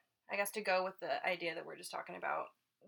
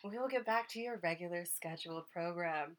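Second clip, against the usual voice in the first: announcer voice; 2 semitones higher than usual. Pretend.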